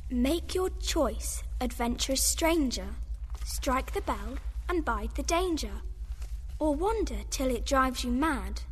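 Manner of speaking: slow solemn reading. Acted. Reading a carved riddle aloud.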